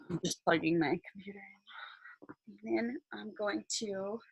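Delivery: quick whispered aside; whispering. Real, not acted. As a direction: whisper it under your breath. Aside while fixing the connection.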